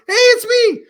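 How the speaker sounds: very high, loud shout, playfully imitated; excited impersonation. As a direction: shout it out like a hammed-up movie character. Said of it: "comes out and goes".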